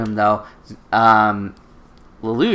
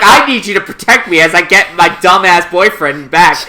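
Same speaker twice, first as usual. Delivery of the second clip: laughing mock command; 3 semitones higher, 5 dB louder than usual.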